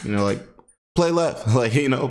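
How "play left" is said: high mock English football accent; a hammed-up English footballer calling for the ball. Teammate calling for a pass, mock English accent. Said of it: "the English accent when it comes to soccer terms".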